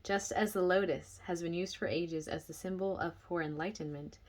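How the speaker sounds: measured book-reading voice, projected; reading aloud. Real, not acted. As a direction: read the passage out clearly to listeners.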